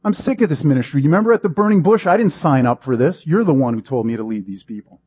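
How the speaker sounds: worked-up, imitated outburst of grievance; exasperated crying out. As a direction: act out a leader venting to God. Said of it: "he cries out to God".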